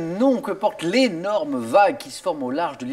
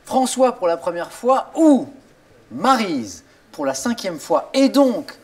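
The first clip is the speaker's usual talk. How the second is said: game show host. Acted. Host teases before break.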